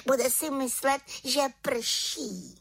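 high, ending in a sly whisper; gloat, then whisper the joke; little witch. Acted. Witch gloats over her prank. (malá čarodějnice šeptem)

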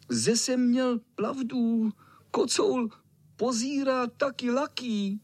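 high excited triumphant shout; little boy shouting. Acted. Little boy shouting to the others that he was right. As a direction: crow about being right. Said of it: "křičel malý".

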